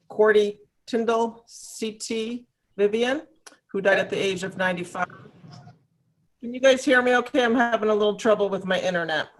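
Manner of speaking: choppy call audio breaking up; bluetooth cutting out. Real, not acted. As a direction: voice dropping in and out. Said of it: "You're, you're breaking up a little bit".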